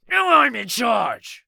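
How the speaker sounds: high, loud, slow yell. A narrator's reading. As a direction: yell it out, taking control. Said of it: "he yelled".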